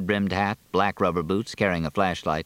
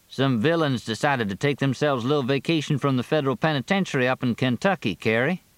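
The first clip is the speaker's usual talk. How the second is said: lightly voiced deputy, pitched up; a higher voice than the narration, drily understated; drily joking deputy; 6 semitones higher than usual. Deputy tells Carrie about the escaped convicts, drily joking.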